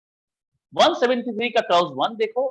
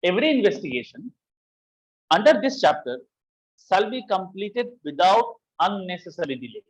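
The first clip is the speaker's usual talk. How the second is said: slow statute reading; much slower than usual. Shown as a demonstration. Teacher reads the clause to students, very slow and deliberate. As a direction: read the clause word by word, very slow. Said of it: "क्या कहता है?".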